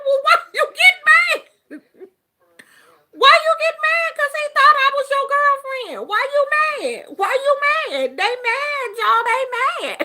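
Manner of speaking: high, loud singsong taunt; teasing. Retold or imitated. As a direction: tease him in a squealing singsong. Retold teasing of angry son.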